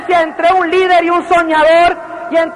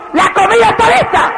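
put-on calling kids to dinner; 5 semitones higher than usual. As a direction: announce dinner to the house. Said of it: "es decir".

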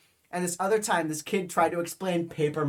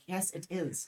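put-on softer silly German accent; strong German accent; 3 semitones higher, 7 dB quieter than usual. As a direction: insist quietly in a German accent. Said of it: "I had a really strong, stupid accent".

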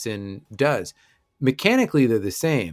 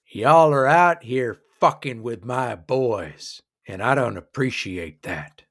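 angry dwarf boss; 2 semitones lower than usual. Acted. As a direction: warn the strangers like an angry roadhouse boss. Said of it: "She says".

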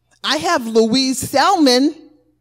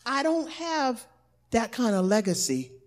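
doubtful objection; 2 semitones lower, 6 dB quieter, faster than usual. Retold or imitated. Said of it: "to any that would say".

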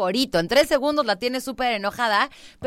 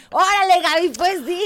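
mock challenge; 8 semitones higher, 4 dB louder than usual. Acting a mock confrontation with Gaby.

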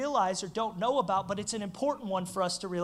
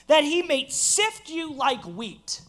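slow scripture emphasis; 6 semitones higher, 6 dB louder, much slower than usual. Acted.

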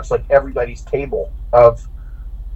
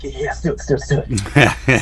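giddy. Retold or imitated. Robbie egging the driver on to race, giddy.

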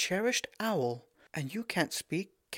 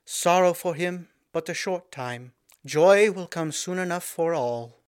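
high, slow, ringing proclamation; clear ringing tones; 5 semitones higher, 9 dB louder than usual. A narrator's reading. Princess addressing her people in clear ringing tones. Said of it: "she said in clear, ringing tones".

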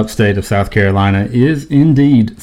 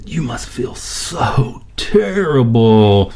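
sympathetic nurse voice; much slower than usual. Retold or imitated. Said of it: "she came back and said".

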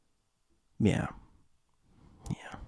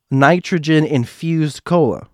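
words pushed out on a burp; 6 semitones higher, 5 dB louder, slower than usual. Real, not acted. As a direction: burp through the line. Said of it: "that was a weird burp thing".

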